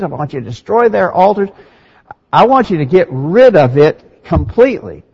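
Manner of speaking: mildly emphatic retold command from Moses. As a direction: lay firm weight on each instruction, REPEATING "I want you". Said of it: "Why would you stress that so emphatically?".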